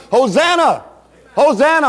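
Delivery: mild preacher's imitation of a shout; shouting crowd. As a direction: call it out like a praising crowd, held in check. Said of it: "they stood by shouting".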